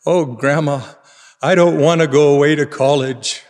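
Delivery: put-on shaky, trembling child's plea; quivering voice. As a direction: quiver through the words like a little girl near tears. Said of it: "in a quivering voice said".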